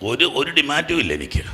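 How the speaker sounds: soft, low-pitched disclaimer; subdued. Real, not acted. Preacher telling the congregation he makes no demand, subdued. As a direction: back off quietly, making no demand.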